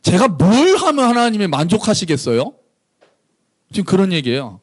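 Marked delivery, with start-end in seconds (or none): 0.0-2.5 mildly snide courtroom objection; sarcastic protest. Acted. Israel arguing with God in court, sarcastic. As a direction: challenge God with mock exasperation. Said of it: "이스라엘이 빈정되는 거예요".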